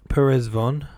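perplexed. A narrator's reading.

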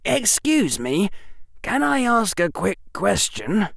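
put-on young boy muffled by scarf. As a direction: speak through a wrapped scarf. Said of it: "in a voice only slightly muffled by the scarf".

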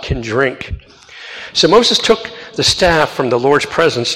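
measured, solemn reading of the Bible passage; scripture reading. Acted. Lector reading Numbers to the congregation, solemn and measured.

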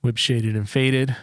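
slow, clear shout-out; each word spelled out slowly; slow announcement. Shown as a demonstration. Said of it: "slow name announcement".

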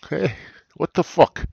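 high, loud what the fuck; mock outrage. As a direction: act scandalized at the listener. Mock outrage at late listener.

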